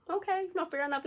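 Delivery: high-pitched imitation of a man backing off; conceding. Man told the seats are taken, high and conceding.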